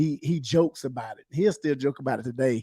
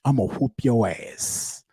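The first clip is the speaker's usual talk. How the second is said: mom's threat; 3 semitones lower, slower than usual. Retold or imitated. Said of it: "communicate a threat".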